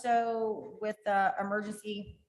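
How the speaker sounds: talking around a piece of candy; candy in the mouth while speaking; mouth full. Real, not acted. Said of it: "I just put candy in my mouth".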